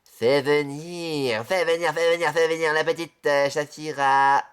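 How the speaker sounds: slow, low drawn-out call; low slow summons; slow summoning. Acted. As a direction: beckon the character in slowly.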